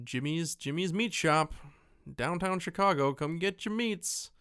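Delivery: cheesy small-town TV ad read; mock local ad. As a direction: sell the meat shop like a cheesy local commercial.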